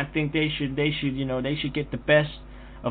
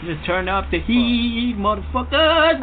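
mock hollering; 3 semitones higher, slower than usual. Clowning back at shut off heat.

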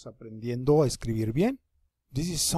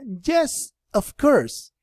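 put-on much higher girl's voice, bright and willing; voicing the girl; 8 semitones higher, 6 dB louder, much slower than usual. Teacher plays the girl answering the boy, higher. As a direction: pitch up to play the girl agreeing. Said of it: "Y la niña le contesta".

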